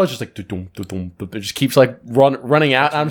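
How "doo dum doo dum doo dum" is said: water glugging sound. Retold or imitated. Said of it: "you see the water bottle".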